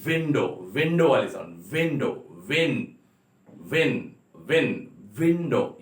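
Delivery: "विंडो" with rounded lips, the w sound; w sound demo. Shown as a demonstration. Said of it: "इसकी sound है".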